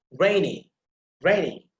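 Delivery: rainy with RAI punched, falling after; first-syllable stress. Shown as a demonstration. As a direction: hit RAI in rainy, let the end drop. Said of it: "put emphasis on the first syllable".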